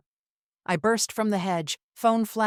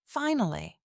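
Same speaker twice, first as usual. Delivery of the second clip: breathy; 3 semitones higher than usual. Acted. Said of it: "Grace's reply was breathy".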